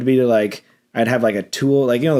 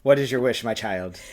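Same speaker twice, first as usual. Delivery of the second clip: genie; 4 dB quieter than usual. Pretend. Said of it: "Magic Genie".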